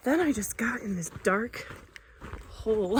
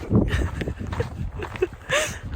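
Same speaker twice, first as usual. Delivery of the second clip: teary laugh. Real, not acted. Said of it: "I can't stop crying".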